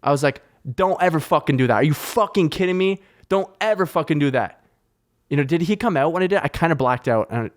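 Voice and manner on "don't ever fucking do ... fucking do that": higher, emphatic angry telling-off; retold fuming scolding. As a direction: re-enact laying into someone. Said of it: "fucking fuming mad".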